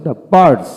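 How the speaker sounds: "the birds" with a lightly touched r. Shown as a demonstration. Teacher models the word for learners, light r in "the birds". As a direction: barely sound the r in "the birds". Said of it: "আরটা হালকা হচ্ছে".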